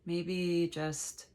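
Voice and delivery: slow, unhurried meditation guide with long pauses; measured meditation voice, leaving space between phrases; guided meditation. Real, not acted. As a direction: gently lead listeners into letting go.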